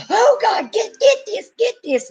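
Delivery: high, frantic imitated panic with a laugh; panicked shriek. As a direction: play her bursting in terrified, half laughing. Mary bursts in panicking, retold.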